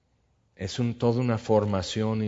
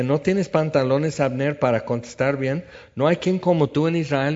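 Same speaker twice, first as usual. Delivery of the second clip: mocking challenge; 4 semitones higher, 4 dB louder than usual. David mocking Abner.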